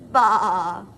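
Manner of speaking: loud sheep bleat. Acted. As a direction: bleat like a lamb. Sheep sound for children.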